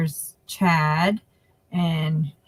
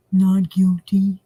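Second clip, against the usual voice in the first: slow, drawn-out "not guilty"; lightly mocking the plea; imitating defendant; 4 dB louder, slower than usual. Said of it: "That's how he sounds".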